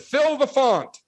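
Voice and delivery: mock eager. Joking he'd baptize the coworker now, mock eager. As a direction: play the overeager missionary. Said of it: "And I said".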